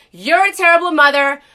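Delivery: retold yell at the gate agent; screaming. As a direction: scream it across first class. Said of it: "in first class screaming".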